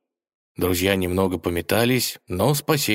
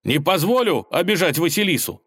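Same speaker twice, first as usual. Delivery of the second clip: high, heated vow; indignant; 10 semitones higher than usual. Acted. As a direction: Ivan vows to protect Vasilisa, high and heated. Ivan defends Vasilisa.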